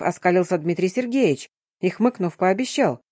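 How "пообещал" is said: ordinary delivery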